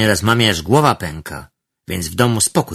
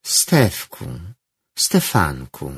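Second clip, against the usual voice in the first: honeyed; 4 semitones lower, slower than usual. Acted. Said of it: "Głos Aliny płynął teraz miodem".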